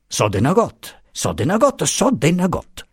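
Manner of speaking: high, insistent exclamation, repeated; exclaiming. A narrator's reading. Signora Cecca protests to her guest, exclaiming. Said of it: "esclamò la signora Cecca".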